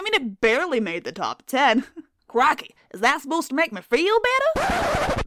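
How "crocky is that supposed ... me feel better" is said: put-on a weak, half-hearted Australian accent; bad Australian accent. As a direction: fake Aussie, barely landing it. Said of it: "That's not an Australian accent".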